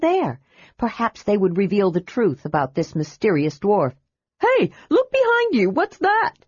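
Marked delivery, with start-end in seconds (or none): 4.4-6.3 trick him into turning round; feigned alarm cry. A narrator's reading. Tass crying out to distract the dwarf, feigned alarm. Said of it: "Tass cried".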